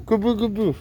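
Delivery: "kupu kupu" said high with a fall; "kupu kupu", k first, falling; corrected Indonesian word. Shown as a demonstration. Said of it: "papillon en indonésien".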